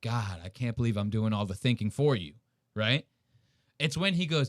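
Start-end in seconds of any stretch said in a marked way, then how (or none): 0.0-2.3 put-on, mock exhausted tone, much lower. Describing how he could have said it instead, imitating an exhausted tone. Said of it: "you kind of sounding like exhausted".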